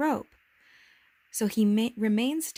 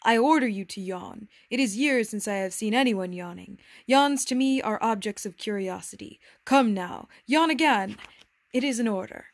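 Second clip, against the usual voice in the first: lightly acted monarch, louder on the commands; imperious king; 4 dB louder than usual. King orders the little prince to yawn, imperious. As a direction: command like a king, building in insistence.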